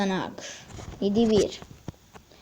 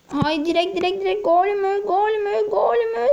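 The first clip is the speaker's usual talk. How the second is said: higher and higher, tense disbelief; rising excitement; 8 semitones higher than usual. Real, not acted. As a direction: build up the tension on each repeat. Tense last seconds of match.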